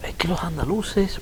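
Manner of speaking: mocking Madrid snob. Retelling how Madrid people mocked his accent, high slow sneering imitation. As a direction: mimic a condescending Madrileño sneering at Andalusians. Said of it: "ellos lo decían de otra forma que yo no sé decirlo".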